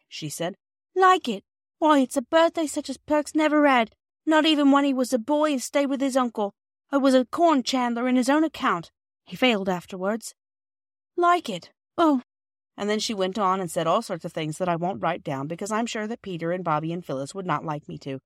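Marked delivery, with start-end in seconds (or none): 0.9-12.2 high, loud gushing housewife; overjoyed Mrs Perks. A narrator's reading. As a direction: pour out her delight breathlessly.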